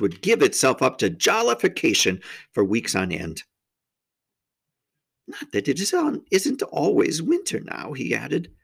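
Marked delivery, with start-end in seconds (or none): 5.3-7.9 higher-pitched gloomy faun; a touch of gloom in the faun's voice; gloomy aside in a character voice. A narrator's reading.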